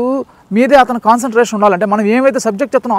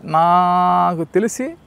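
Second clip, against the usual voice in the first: drawn out slowly; 4 dB quieter, much slower than usual. Shown as a demonstration. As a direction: stretch నాకు తెలిసి very slowly, rising at the end. (నాకు తెలిసి చాలా నెమ్మదిగా సాగదీసి)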